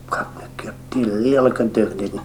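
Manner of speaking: hushed, breathy whisper of a remark; whispered gossip aside. Retold or imitated. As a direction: whisper it behind your hand.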